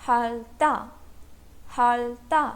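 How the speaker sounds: "हालता" as hal-ta, only L closing the first syllable; pronunciation demo. Shown as a demonstration. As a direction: model "हालता" carefully, split after the L. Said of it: "तो पूरे word का pronunciation क्या होगा?". ("हालता" का उच्चारण हाल-ता, ल साफ़)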